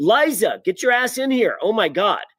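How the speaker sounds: put-on very high, stretched-out, drawn-out scream. Retelling calling someone in through a shared wall: imitating own scream. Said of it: "I just screamed across the".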